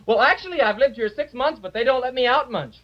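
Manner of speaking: high, prissy little dog voice; a little dog speaking up high and polite; high-voiced dog. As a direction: play the small dog with a high voice. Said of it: "the one with a high voice says".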